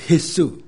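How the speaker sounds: 耶稣 sounded out as "He-su". Shown as a demonstration. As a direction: demonstrate 耶稣 opening on an H, "He-SU". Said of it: "是念H的音嘛".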